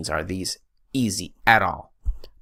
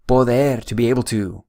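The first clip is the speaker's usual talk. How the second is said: whisper; 4 semitones higher, 4 dB louder than usual. Shown as a demonstration. Teacher announcing next verb.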